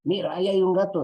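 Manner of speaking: high, loud and fast excited shout; excited call. Retold or imitated. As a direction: blurt it out at a sudden sighting. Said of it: "y alguien dice".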